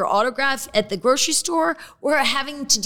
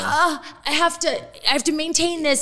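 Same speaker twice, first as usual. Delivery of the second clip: burdened voice; 7 semitones higher than usual. Retold or imitated. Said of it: "It feels like a".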